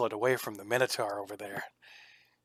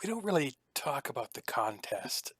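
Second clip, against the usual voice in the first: confiding; 6 dB quieter than usual. Acted. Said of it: "he leans in close and says".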